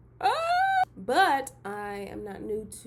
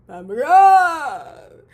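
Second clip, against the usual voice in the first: Pat McGrath shouted high and hugely louder; excited shout; 6 semitones higher, 20 dB louder than usual. Real, not acted. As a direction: scream the name like a starstruck fan.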